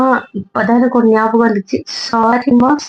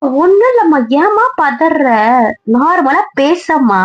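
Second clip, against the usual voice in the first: flustered reassurance; 5 semitones higher, slower than usual. Acted. Daughter hushing worried mother.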